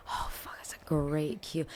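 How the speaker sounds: whispered aside. Real, not acted. Guest caught off guard by the host's question, whispered aside. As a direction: murmur it to yourself, caught off guard.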